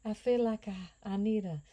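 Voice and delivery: put-on Southern accent. To viewers about the Southern heat, a hammed-up Southern accent. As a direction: play a Southern belle craving a mint julep, Southern accent. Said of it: "I'm working on my Southern accent".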